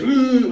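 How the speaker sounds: loud, high mock smooch moan; high kissing "mm". Man grabbing his woman to kiss her, mock moan. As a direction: mimic a forceful movie kiss. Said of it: "grabs their woman and goes".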